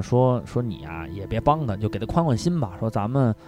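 放低放轻, 慢慢地劝; 压着嗓子温和地转述; 轻声劝慰. Retold or imitated. Quoting friend's gentle advice. (小声学劝)

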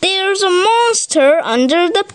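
high, tearful child's voice, acted; sobbing. A narrator's reading. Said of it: "he sobbed".

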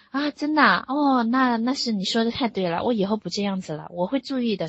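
mild surprise, then earnest compliance; imitated surprised agreement. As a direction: act out a husband suddenly conceding. Husband's receptive reply acted out.

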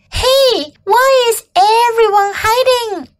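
high, piping little bug voice; curious baby bug. Acted. Baby bug asks why everyone hides, high and curious. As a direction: call out the question in a high child-like voice. She said.

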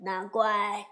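put-on slow, humble, fawning old god voice; timid local gods. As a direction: plead your innocence slowly to the Great Sage. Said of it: "二神忙说". (土地神缓慢恭敬地辩解)

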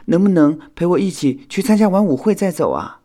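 high-pitched, loud request; pleading. A narrator's reading. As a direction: beg friends to stay longer. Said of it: "火影请求道". (恳切地请求)

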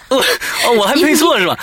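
high giggly voice; laughing while talking. Real, not acted.

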